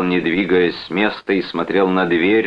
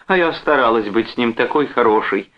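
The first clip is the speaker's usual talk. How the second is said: higher, self-pitying whine; whimpering; 6 semitones higher than usual. A narrator's reading. Wife laments to her brother, whimpering. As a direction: whine in hurt protest. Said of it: "захныкала Джоан".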